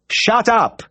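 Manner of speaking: sharp high yell at barking dogs; shout. A narrator's reading. Vet shouting the yapping dogs into silence. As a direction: bark the order to silence the pack. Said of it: "I shouted".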